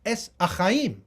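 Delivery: ES ACHAIM with plain S and silent H; Ottoman Sephardic pronunciation. Shown as a demonstration. Lecturer showing the congregation's name, Sephardic pronunciation. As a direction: say ES for Etz, then ACHAIM without an initial H. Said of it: "is pronounced S".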